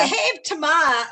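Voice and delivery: loud, amateurish New York accent. Shown as a demonstration. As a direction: holler it like a New Yorker. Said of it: "that's a terrible act".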